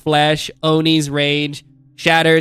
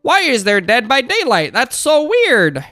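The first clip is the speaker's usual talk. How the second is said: high, swooping naive puzzlement; mock innocent wonder; 6 semitones higher than usual. Streamer re-enacting spotting Dead by Daylight, in mock naive wonder. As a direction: play your clueless earlier self, pitch way up. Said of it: "I was like".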